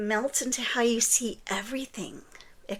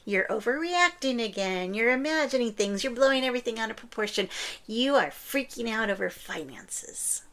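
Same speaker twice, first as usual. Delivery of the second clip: imitating a narcissist. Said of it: "the narcissist version might be".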